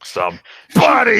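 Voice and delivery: high, slow loud call. Acted. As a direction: call for help down the hall. Calling out at the door.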